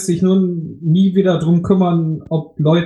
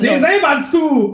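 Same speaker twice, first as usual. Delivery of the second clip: schnippisch lachend; 10 semitones higher, slower than usual. Pretend. Mock callous skier rant.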